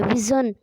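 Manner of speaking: विजन with a zh made of ज and य together; blended J-Y sound. Shown as a demonstration. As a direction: demonstrate the blended middle consonant of विजन. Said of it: "ज और य की sound आती है".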